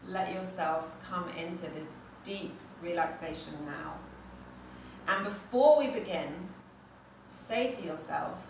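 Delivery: calm, unhurried meditation guide with long pauses; settling meditation voice; guided meditation. Real, not acted. Leads into meditation practice.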